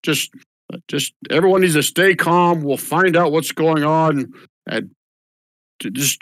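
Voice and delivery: mildly voiced old official pleading for calm; calming town official. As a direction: settle the crowd down gently.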